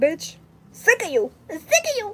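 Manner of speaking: fake-exasperated dog voice, high and swooping. Speaking for the pet dog as if she talks: voicing the dog, mock annoyed. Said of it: "She's like".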